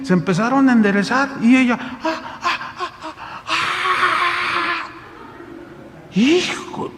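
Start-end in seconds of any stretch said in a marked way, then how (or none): 1.8-4.9 high, breathy gasping cries; gasping in amazement at healing; airy, rising gasps; high breathless gasps. Retold or imitated. Woman gasps as healed.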